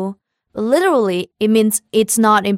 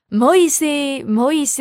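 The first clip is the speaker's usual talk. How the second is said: laughing; 6 semitones higher, much faster than usual. Pretend. Laughing repeat of apology.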